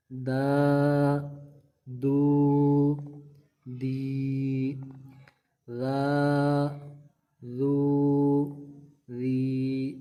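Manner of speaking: syllables in a steady chant; fluent reading. Shown as a demonstration. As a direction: read smoothly without spelling. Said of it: "میں اس کو رواں پڑھنے لگا ہوں".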